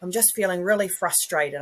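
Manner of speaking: a hint of a small boy naming his frustration; toddler voice. Toddler who dropped something, reporting his feelings, lightly childlike. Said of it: "he's like".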